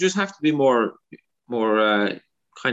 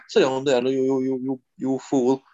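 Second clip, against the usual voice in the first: put-on mild Kerry accent. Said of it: "things you can say in an accent that are funny".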